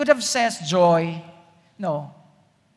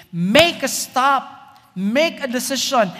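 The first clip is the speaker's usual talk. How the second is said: slow, louder, higher command; 4 semitones higher, 4 dB louder, slower than usual. Real, not acted. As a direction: order it, slowly. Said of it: "It's a command".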